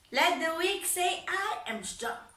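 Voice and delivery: high, loud proclaiming; triumphant declaration. Retold or imitated. Daughter declaring strength to her father, high and loud. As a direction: proclaim it like scripture.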